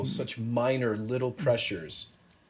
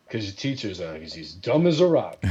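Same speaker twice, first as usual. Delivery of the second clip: retold loud line; 3 semitones lower, 4 dB louder than usual. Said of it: "No, don't say that so loud".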